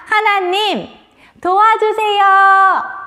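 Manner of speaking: drawn-out chanted plea, ending loud; led prayer call. Shown as a demonstration. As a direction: lead children in crying out to God. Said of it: "두 손을 모으고 화가 났을 때 이렇게 하나님께 기도하는".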